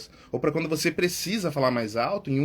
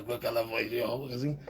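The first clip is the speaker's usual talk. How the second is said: soft, worn-out smoker's voice; 4 semitones lower, 6 dB quieter than usual. Shown as a demonstration. Teacher imitates a smoker's damaged voice, soft and worn. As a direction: imitate a voice ruined by smoking. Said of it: "Aquela vozinha de fumante".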